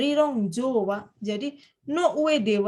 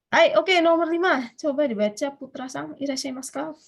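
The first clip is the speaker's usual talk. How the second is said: raised, higher classroom call; calling on student; 4 semitones higher, 4 dB louder than usual. Real, not acted. Teacher asks a student to read number five, calling out.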